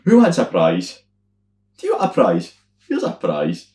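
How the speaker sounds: lightly voiced hearty entertainer; a hint of a cheery compere; Scots entertainer. Friend imitates the entertainer a Scots host would be, lightly hearty. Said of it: "they'd be like".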